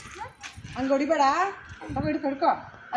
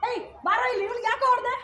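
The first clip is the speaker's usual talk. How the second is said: higher-pitched confrontational call; demonstrating a forceful, higher challenge; forceful demand; 6 semitones higher, faster than usual. Shown as a demonstration. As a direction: call him over and demand an answer. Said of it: "ನೀನ್ ಜೋರಾಗಿ ಹೇಳ್ಬೇಕು".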